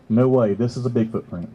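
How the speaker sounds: low-pitched, dismissive doubt; mock disbelief. Doubter answering the Bigfoot print claim, mock disbelief. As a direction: drop low and play the doubter. Same reaction turned to doubt.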